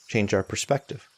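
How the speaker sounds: unhurried meditation guidance with long pauses; spacious, measured mindfulness instruction; guided meditation. Real, not acted. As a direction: guide them gently, leaving long silences between phrases.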